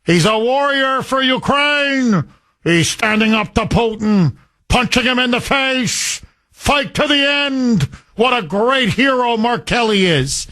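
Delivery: lightly mocking a fawning news anchor, pitch up; mock media gushing. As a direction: gush over him like a sycophantic TV report, hammed-up. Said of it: "What does state-run media say?".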